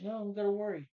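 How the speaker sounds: mock-frantic Harvey Dent; panicked. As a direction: voice jumping up in worry. Harvey freaking out against Two-Face.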